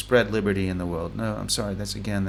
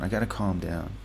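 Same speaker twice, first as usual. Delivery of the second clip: "I gotta calm down" said lower and softer, settling; calming himself down; 4 semitones lower, 5 dB quieter than usual. Real, not acted. Alone at his desk, reining in his excitement, quietly. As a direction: talk yourself down, easing off.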